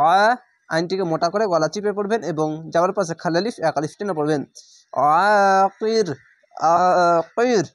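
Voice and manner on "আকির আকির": আকির held long, ending on a stopped র; stopping with sukun. Shown as a demonstration. Teacher showing the pause on আকির. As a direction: hold আকির and stop dead on the র. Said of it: "এভাবে থেমে যাবেন".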